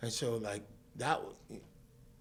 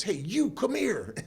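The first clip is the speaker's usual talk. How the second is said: slow, raised and higher, calling across the street; retold cop call; 12 semitones higher, 9 dB louder, slower than usual. Retelling a cop calling him over, raised and slow. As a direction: bark it like a cop spotting a kid.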